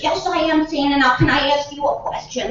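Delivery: Billy. Acted. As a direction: ask as an eager child. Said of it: "And Billy says".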